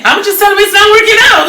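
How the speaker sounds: high, loud, fast fed-up outburst. Retold or imitated. Retelling Janet's studio argument, fed up. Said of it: "like, she was fed up".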